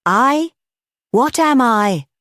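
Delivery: high, rising roar of disbelief; outraged roar. Acted. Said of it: "roared the president".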